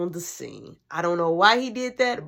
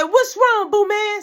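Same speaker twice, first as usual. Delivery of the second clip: higher, louder sing-song coo; sweet mom voice; 12 semitones higher, 7 dB louder, slower than usual. Retold or imitated. Mom asking her little boy what's wrong, sing-song coo.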